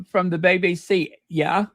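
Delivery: hammed-up English accent; bad English accent. Host clowning for live viewers, bad English accent. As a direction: do a badly faked English accent. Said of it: "I do the worst English accent".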